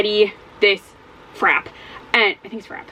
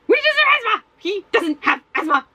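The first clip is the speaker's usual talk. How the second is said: exasperated; 11 semitones higher than usual. Real, not acted. Exasperated rant about Eddie.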